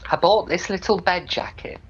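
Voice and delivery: put-on high-pitched, mildly tearful old mother; lightly acted hurt after a cry. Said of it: "She'd been crying".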